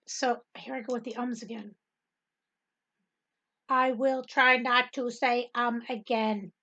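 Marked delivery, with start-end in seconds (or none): 3.7-6.5 slow, careful and spaced out; deliberately slow. Shown as a demonstration. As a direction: space each word out slowly. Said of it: "talk that slow".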